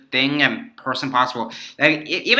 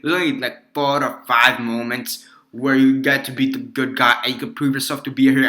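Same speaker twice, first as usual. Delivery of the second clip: rough mock-Russian accent; lightly attempted Russian accent, knowingly bad; Colossus, Russian accent. Reviewer retrying the hero's speech, terrible Russian accent. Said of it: "I'm making a terrible accent".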